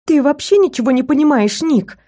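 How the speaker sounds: high, indignant outburst; flaring up. Acted. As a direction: flare up at him, pitch jumping high. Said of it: "взвилась я".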